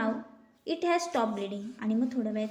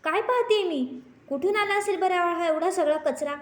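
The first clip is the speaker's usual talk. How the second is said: shocked surprise; 6 semitones higher, 4 dB louder than usual. Acted. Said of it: "ते म्हणतात".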